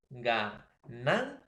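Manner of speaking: slow, split "Ganancia", ga-NAN-cia with rising "nan"; stress on penultimate syllable. Shown as a demonstration. Teacher repeating for students, stressed "nan" in "Ganancia". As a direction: break "Ganancia" apart and punch "nan". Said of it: "la mayor fuerza de voz".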